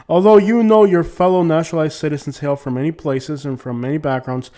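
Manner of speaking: loud, emphatic read-aloud; formal letter reading. Acted. Reads citizenship letter aloud.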